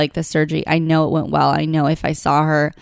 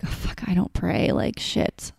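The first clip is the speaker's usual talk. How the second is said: whispered private panic, softer; hushed thought, caught off guard; panicked inner whisper; 7 dB quieter than usual. Retold or imitated. Thinking when asked to pray, panicked whisper. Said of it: "I was like".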